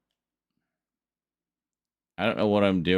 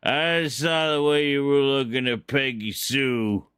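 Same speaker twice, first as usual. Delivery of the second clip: cowboy outlaw; 4 semitones higher than usual. Pretend. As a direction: play the tough Western outlaw. Acting out Outlaw cowboy taunts.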